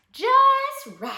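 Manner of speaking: high, loud, delighted pronouncement; delighted approval. A narrator's reading. Dusty Locks tries the cub's stool, delighted. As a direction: crow it out, way up high.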